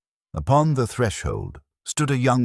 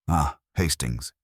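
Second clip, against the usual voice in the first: slow, lightly voiced fussy Belgian detective; Poirot. A narrator's reading. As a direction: savour the greeting slowly, a hint of Poirot. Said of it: "he said without turning".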